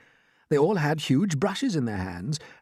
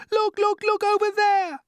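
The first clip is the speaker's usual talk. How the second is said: very high, loud exclaim; shouted; 5 dB louder than usual. A narrator's reading. Ladybird alerting everyone, excited shout. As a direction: point in amazement. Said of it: "shouted the ladybird".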